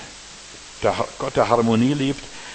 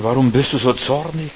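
mild stern God voice; God rebuking Cain; 2 semitones higher than usual. Acted. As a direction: ask it as a grieved father would. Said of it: "da sprach der Herr zu Kain".

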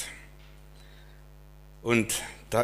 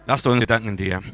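loud, fervent prayer voice; 4 dB louder than usual. Acted. Pastor praying aloud for the church. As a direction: pray out over the congregation.

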